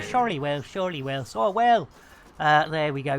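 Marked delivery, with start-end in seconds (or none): 0.0-1.9 badly faked Welsh lilt; mock Welsh accent, thrown away. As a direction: put on a poor Welsh accent. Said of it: "that bad Welsh accent".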